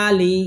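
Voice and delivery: আলি with the opening "আ" held; one-alif stretch. Shown as a demonstration. Teacher explaining the hamza, আলি with stretched first vowel. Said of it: "এক আলিফ টান দিতে হবে".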